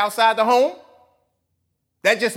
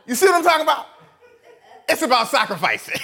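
higher and louder, laughing through the words; 7 semitones higher, 4 dB louder than usual. Real, not acted. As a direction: laugh at your own joke about the shoes. Laughing at son's Jordans.

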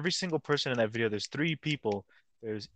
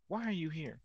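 Chris Hansen; 6 semitones higher, 6 dB quieter than usual. Retold or imitated. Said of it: "Chris Hansen walks out and he's like".

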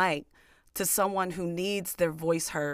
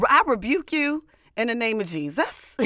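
fierce commanding prayer; 6 semitones higher, 4 dB louder than usual. Acted. Rebuking the devil.

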